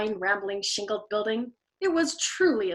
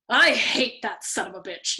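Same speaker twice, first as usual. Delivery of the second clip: growled; 4 dB louder than usual. Acted. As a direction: spit out the hate slowly. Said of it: "Yossarian growled".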